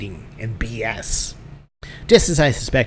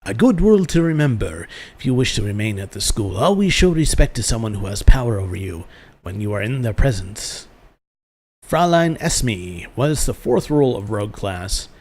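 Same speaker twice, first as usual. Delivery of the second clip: put-on German-accented master addressing the class; German schoolmaster. Master reviewing rules for a new arrival, in a German accent.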